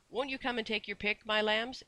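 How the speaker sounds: high, inviting singsong lilt; coaxing sweetness. A narrator's reading. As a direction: coax the children sweetly. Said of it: "beckoned so sweetly".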